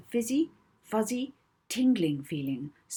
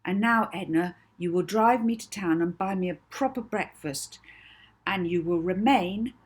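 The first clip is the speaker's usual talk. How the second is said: firm command; 2 semitones higher, 5 dB louder than usual. Acted. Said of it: "she said firmly".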